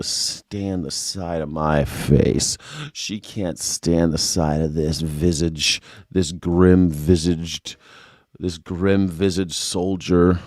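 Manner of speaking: hammed-up solemn slow; mock dramatic. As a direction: drag it out like an epic narrator. Mock-dramatic self description.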